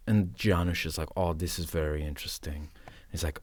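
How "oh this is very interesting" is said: low, soft imitated reply; quiet musing. Actor retells cinematographer's reply, quiet musing. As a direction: murmur it like an absorbed cameraman.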